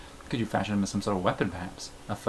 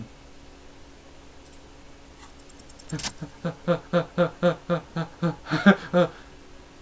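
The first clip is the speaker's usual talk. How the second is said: long breathless laugh; 7 semitones higher than usual. Real, not acted. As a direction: laugh it out, wheezing. Laughs at his own joke.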